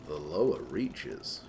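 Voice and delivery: hammed-up sinister chapter name; ominous deep title. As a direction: intone it like a grim trailer announcer.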